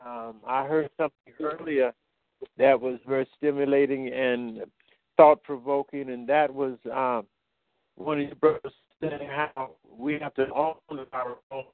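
choppy, cutting-out phone call; words dropping out on a bad line; breaking up phone line. Real, not acted. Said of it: "you're cutting up there".

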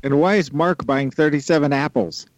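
high, whiny mock question. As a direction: ask it like a confused student. Mocking silly word problems.

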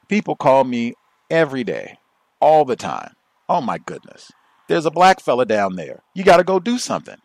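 high and loud, imitating an alarmed caller. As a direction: complain loudly like a panicked white caller. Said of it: "This white man, he confesses".

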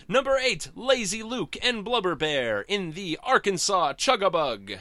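loud, high, booming race announcer; Wacky Races announcer. Shown as a demonstration. Fan reviewing the comic does the cartoon's race announcer voice. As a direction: call the racers to the start line like a cartoon announcer. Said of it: "do my Wacky Races voice".

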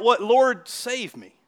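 high, loud, drawn-out plea; crying out. Retold or imitated. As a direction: cry out slowly in desperation. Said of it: "and then he cried out".

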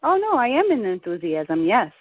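insisting on enthusiasm. Real, not acted. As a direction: insist you really are enthusiastic. Protesting she is enthusiastic.

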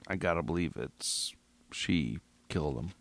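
hushed unvoiced whisper; whispered aside. Real, not acted. Podcaster whispering his belief to listeners. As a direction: breathe it like a secret.

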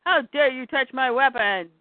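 mock indignant yell. Woman yelling at Lois over her weapon, indignant yell. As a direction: call out in mild outrage. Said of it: "someone yells".

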